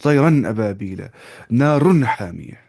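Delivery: तयरन and नारुन with a clear, unhummed n; clear izhar. Shown as a demonstration. Teacher giving examples of izhar, noon pronounced clearly. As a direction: sound the n cleanly in तयरन, नारुन. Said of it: "यहाँ पढ़ते clear नून साकिन को".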